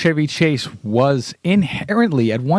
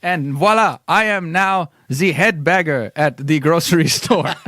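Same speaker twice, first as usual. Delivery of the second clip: put-on French accent; 4 semitones higher than usual. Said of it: "speak with the French accent".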